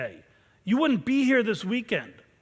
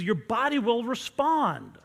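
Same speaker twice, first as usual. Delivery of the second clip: normal talking voice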